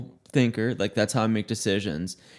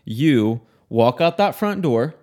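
stern instruction; 4 dB louder than usual. Retold or imitated. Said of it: "I said".

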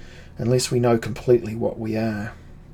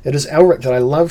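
louder, higher, quickened impassioned cry; 4 semitones higher, 8 dB louder, faster than usual. A narrator's reading. Cymoril pleading with Elric to stay, crying out. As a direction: cry it out with urgency, pitch lifted. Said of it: "she cried".

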